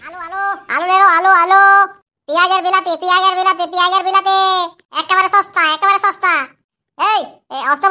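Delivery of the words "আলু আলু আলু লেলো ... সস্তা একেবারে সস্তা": hawker's call. Acted. Vendor calling out wares again.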